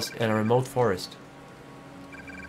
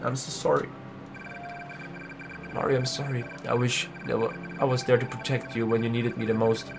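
soft sad vow; 4 semitones lower, 8 dB quieter than usual. Acted. Vowing at friend's grave.

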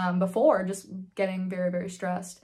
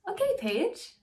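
higher-pitched, suddenly gentle doctor; imitated nice guy; 6 semitones higher, slower than usual. Doctor ending a hard session, put-on nice voice. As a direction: ease in with long pauses, placating. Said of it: "suddenly become a nice guy".

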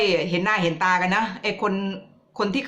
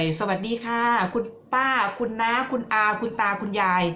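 sugary greeting to the elders, a bit higher; mock campaign greeting; 4 semitones higher than usual. Politician greeting villagers before the election, lightly mocking sweetness. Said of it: "อะไรอย่างเงี้ย".

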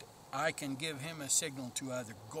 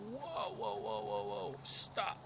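demo banshee yell; 5 semitones lower, slower than usual. Shown as a demonstration. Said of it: "really belt it out".

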